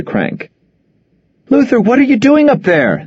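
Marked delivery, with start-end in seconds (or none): 1.5-3.1 high worried yell from below. Acted. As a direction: call up to him, alarmed. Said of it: "Nora yelled".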